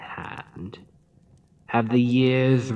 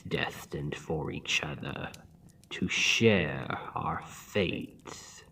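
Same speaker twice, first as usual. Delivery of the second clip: whisper; 3 semitones lower, 6 dB quieter than usual. Acted. Villain intimately taunting the hero.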